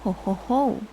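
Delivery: mocking ho ho ho; derisive laugh. A narrator's reading. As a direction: jeer with a laugh. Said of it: "shout of derision".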